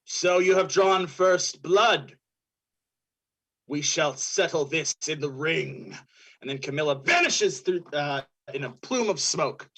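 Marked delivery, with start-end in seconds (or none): 0.0-6.0 lightly voiced villain, dropping lower at the end; dark monk villain. Villain issues a challenge.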